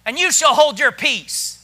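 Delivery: polite, measured firm instruction; said nicely. Acted. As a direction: state it civilly, as read from scripture. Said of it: "Now, He said it nice".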